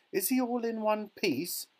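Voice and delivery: high-pitched worried mother; anxious cry. A narrator's reading. Mother asks after her transmitted son, crying out. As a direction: cry out the question, voice way up. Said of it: "cried Missus T V".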